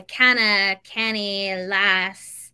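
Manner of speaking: lightly imitated Scottish words; sample Scottish phrases one by one; Scottish accent. Shown as a demonstration. Outlander fan recalls phrases, light Scottish accent. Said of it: "because I'm watching Outlander again".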